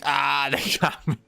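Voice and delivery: hammed-up defeated villain groan; mock dying god. Streamer voicing the Deathless God felled by a passerby, hammed-up whine. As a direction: whine that you've been beaten, lightly voiced. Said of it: "Ah, he screams".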